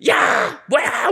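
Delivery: loud, very high furious yell; angry shout. Retold or imitated. Bell deacon catching a boy, loud angry shout. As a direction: bellow at the kid on the rope. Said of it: "막 소리를 지르셨어요".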